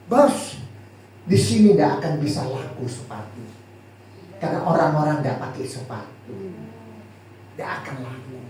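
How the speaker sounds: voicing a defeated salesman; pessimistic report. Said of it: "Nah, pesimis".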